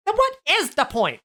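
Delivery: high New York stylist question; New York accent. Acted. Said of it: "really thick New York accent".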